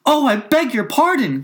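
high, loud cry of apology; hasty cry. A narrator's reading. Alice fears she hurt the mouse's feelings, hasty high cry. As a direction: blurt out a high-pitched apology. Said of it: "cried Alice again".

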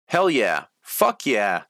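loud eager cheer; eagerly. A narrator's reading. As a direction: pump it up with enthusiasm. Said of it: "Tony said eagerly".

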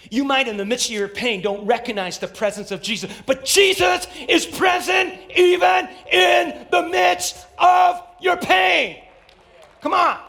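building to a loud, high preacher's shout; full-force preaching. Real, not acted. Preacher assuring a congregation in pain, shouted. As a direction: hammer it out to the congregation, stretching the words.

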